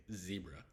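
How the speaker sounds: "zebra" slowly with a long ee, ZEE-bruh; US pronunciation. Shown as a demonstration. Teacher giving the American word, long-ee zebra. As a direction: stretch the first vowel of "zebra" as ee. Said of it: "in the U S we say".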